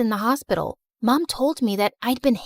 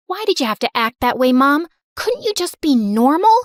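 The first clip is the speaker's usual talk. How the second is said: fast, louder pleading complaint; upset outburst; 3 semitones higher, 4 dB louder than usual. Acted. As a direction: confront mom, voice rising. Daughter confronts mom.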